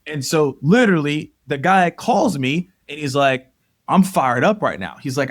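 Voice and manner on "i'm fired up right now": imitating a pumped-up friend; mildly hyped retold phone reply; fired up. Friend calling about the group challenge, fired up.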